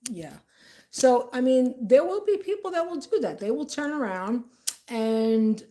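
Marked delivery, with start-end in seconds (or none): 0.1-0.4 lower, dry disbelief; don't buy it one bit; sarcastic doubt. Retold or imitated. Vlogger retelling her sarcastic answer to the woman's excuse. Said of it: "I'm like".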